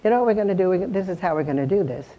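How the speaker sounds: light, easy invitation to join in; inviting. Shown as a demonstration. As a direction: bring the listeners in as partners. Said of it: "I'm inviting you".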